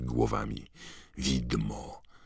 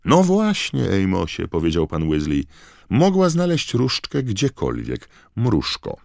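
Mr Weasley's voice; 8 semitones higher, 7 dB louder than usual. A narrator's reading.

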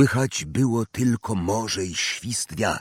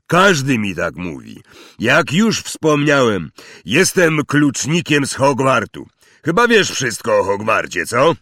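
giant's voice; 4 semitones higher, 5 dB louder than usual. Acted. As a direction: boom it out like a big friendly giant. Hagrid speaking.

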